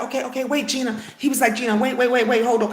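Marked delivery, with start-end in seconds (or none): 0.0-1.0 placating husband. Retold or imitated. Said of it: "he knew I was upset". 1.6-2.7 retold "hold on" plea to an upset wife; placating husband. Husband to upset wife, imitated urgent placating. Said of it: "he knew I was upset".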